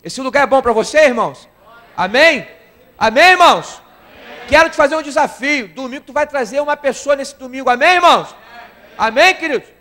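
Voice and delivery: loud, high preaching call; fervent preacher calling for amens. Acted. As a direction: rouse the congregation with call and response. Preacher rallying congregation.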